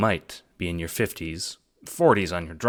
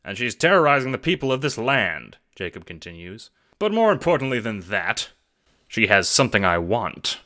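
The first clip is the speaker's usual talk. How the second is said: higher, louder, fast-talking pitch; eager schemer; 4 semitones higher, 3 dB louder than usual. Acted. Jacob pitching the assassination job, eager and hustling. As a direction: sell the plan like a hustler.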